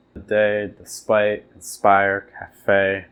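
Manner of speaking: "today", "despite", "inspire" with the second syllable hit; iamb stress. Shown as a demonstration. Teacher modelling iambs: weak first beat, stress on the second. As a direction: stress the end of each word. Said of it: "weak, then stress".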